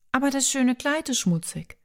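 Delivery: sobbing. A narrator's reading.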